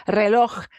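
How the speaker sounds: Reloj ending in a throaty ch sound. Shown as a demonstration. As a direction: say it the Spanish way. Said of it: "hard word to say".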